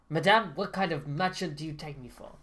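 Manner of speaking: attempted German accent drifting into French; lightly French-accented merchant, emphatic lilt; slipping French accent. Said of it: "starting to slip into a French accent".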